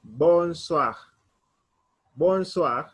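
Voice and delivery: "bonsoir" as bon-swakh, said carefully; French pronunciation. Shown as a demonstration. Teacher models good evening for students, French pronunciation. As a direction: say "bonsoir" with WA and a throaty end. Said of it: "we pronounce it".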